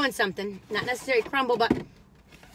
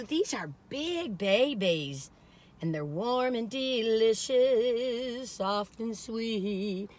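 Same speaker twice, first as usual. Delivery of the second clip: savoring; 3 semitones lower, 5 dB quieter, much slower than usual. Real, not acted. Savoring warm cookies.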